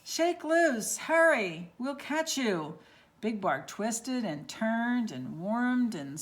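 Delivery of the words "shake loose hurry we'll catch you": urgent shout. Acted. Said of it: "the prairie dog shouted".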